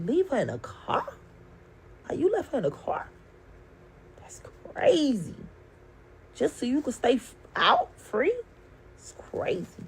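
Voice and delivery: half-whispered, near-crying retelling; tearful disbelief. Retold or imitated. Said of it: "I'm crying".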